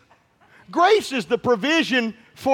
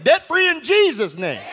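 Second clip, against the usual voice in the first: higher, stronger proclamation of debt free; shouted call; 4 semitones higher than usual. Shown as a demonstration. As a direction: shout it out to the congregation. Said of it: "I must shout it again".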